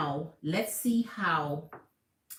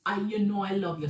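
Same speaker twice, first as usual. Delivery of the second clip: pleading lover; 4 semitones higher, 4 dB louder than usual. Retold or imitated. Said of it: "This pity poor me".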